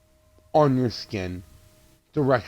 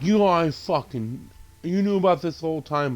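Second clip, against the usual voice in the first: higher-pitched, mildly heated accusing; mock accusation; 4 semitones higher than usual. Woman waving a gun accuses the others, mock heated accusation. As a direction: act out her accusing outburst.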